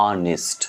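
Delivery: অনেস্ট said as "o-nist"; careful অনেস্ট ending in "nist"; i sound at end. Shown as a demonstration. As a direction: say অনেস্ট with a short i before st. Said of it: "So উচ্চারণ হচ্ছে".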